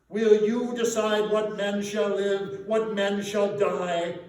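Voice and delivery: the ghost thunders down at a shamed Scrooge; stern demand. A narrator's reading. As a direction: rebuke him with every slow word. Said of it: "demanded the spirit".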